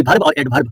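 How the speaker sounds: "वर्ब और एडवर्ब" said as "bharb" and "ad-bharb"; schoolboy mispronunciation. Shown as a demonstration. Teacher recalling his school English class, BH mispronunciation. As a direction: put BH for V in both "वर्ब" and "एडवर्ब". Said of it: "मैंने भी बचपन में".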